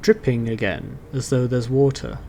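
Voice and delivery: measured game master narration with pauses; scene setting. Acted. Game master describing the tunnel to a player, measured scene setting. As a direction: set the scene, pausing between phrases.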